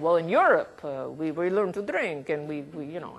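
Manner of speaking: lightly put-on Russian accent. Lecturer quoting a European reviewer of her paper, in a mock Russian accent. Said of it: "I'm having a Russian accent".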